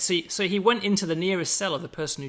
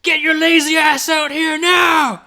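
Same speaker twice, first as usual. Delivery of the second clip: high, very loud, drawn-out drill shout; shouting American guard; 13 semitones higher, 16 dB louder than usual. Acted. Guard rousing a late prisoner at roll call, Die Hard-style shout. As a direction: bellow it like an action-film prison guard. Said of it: "I lapsed into Die Hard there".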